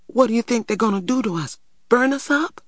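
fast, high, climbing questions; excited. A narrator's reading. Little brother asks what the men will do, excitedly. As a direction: rush it out, pitch climbing. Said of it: "said little man excitedly".

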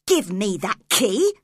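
put-on girl angrily demanding the key from her captor; angry cry. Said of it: "cried Cathy angrily".

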